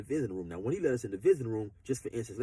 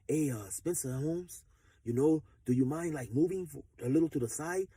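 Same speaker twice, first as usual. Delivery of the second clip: polite ask. Pretend. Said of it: "had he got at me on some cool shit".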